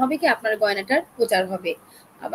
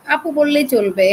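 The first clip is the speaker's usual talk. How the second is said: slow, louder, each word pressed gently; friendly insistence; 4 semitones higher, 6 dB louder than usual. Real, not acted. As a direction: insist kindly that "আপু" is enough. Correcting being called ma'am.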